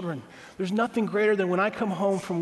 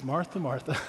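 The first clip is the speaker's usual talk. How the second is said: compassionate; 4 semitones lower, 4 dB quieter than usual. Retold or imitated. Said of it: "Jesus is very compassionate, very kind, very patient".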